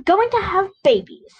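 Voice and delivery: exclaimed. A narrator's reading. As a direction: burst out with the big news. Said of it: "I exclaimed".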